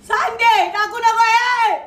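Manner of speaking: desperate plea not to set her alight; panicked pleading. Acted. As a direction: cry out to stop him before he throws it. Threatened with fire, begs.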